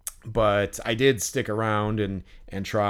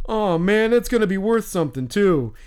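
put-on high, louder kid voice; imitating excited kid; 8 semitones higher, 4 dB louder than usual. Kid exclaims over the signed card, imitated high and loud. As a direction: pitch way up, gushing like a goofball kid. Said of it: "I hear this kid".

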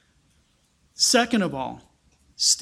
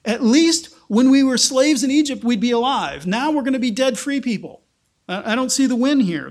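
whiny complaint; 4 semitones higher, 4 dB louder than usual. Acted. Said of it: "That's kind of their approach".

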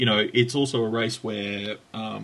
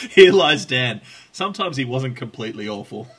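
laughing, louder than usual; amused mock epitaph; 6 dB louder than usual. Host reads out his own joke tombstone, amused and loud. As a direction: proclaim it through laughter.

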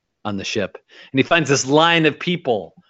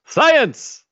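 mock excited cry; 10 semitones higher, 5 dB louder than usual. Host echoes the exclamation.

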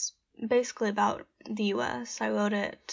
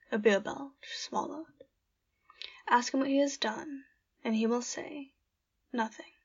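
poem reading. Acted. Reads her own poem aloud.

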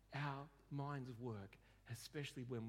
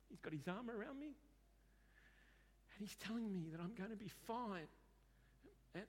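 higher-pitched, mildly tearful reporting; through tears, retold; 5 semitones higher, 3 dB quieter than usual. Client reports his vision to counsellor, mildly tearful and higher. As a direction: lightly imitate a client talking through tears. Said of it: "reporting to me what's going on through the tears".

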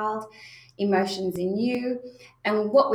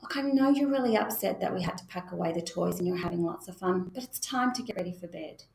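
calm validating. Shown as a demonstration. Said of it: "So notice the emotion".

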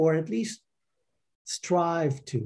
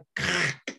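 harsh throat-scraped cracking noise; short throaty "kkhh" sound effect; imitated crunch; 4 semitones higher, 4 dB quieter than usual. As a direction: imitate a stiff, forced crunch. Mimics forcing into lotus.

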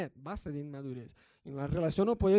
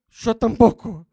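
esposa exasperada; 4 semitones higher, 10 dB louder, slower than usual. Retold or imitated. Esposa responde que tampoco.

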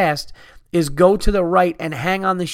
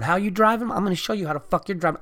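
a hint of a threatening taunt, higher at the start; mock angry taunt; 4 semitones higher, 5 dB quieter, faster than usual. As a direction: throw the sign back at him, mildly menacing. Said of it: "and I'm going".

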